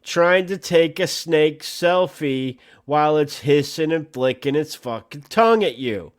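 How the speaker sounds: hammed-up public safety announcement to snake photographers; mock news bulletin. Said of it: "fucking breaking news here".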